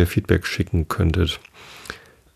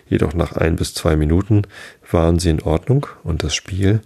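measured read-aloud with lightly voiced dialogue; story narration. A narrator's reading. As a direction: read a bedtime story with lively pitch on the characters.

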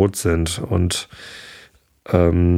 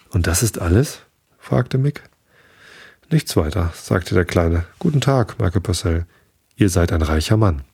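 ruhige Vorleserstimme für ein Märchen; erzähl es wie eine Gutenachtgeschichte; Märchen vorlesen. A narrator's reading. Reads a fairy tale aloud. (Märchen vorlesen, gleichmäßig erzählend)

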